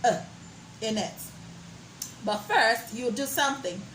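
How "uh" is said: short neutral uh; schwa demo. Shown as a demonstration. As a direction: model the uh. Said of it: "where you can hear".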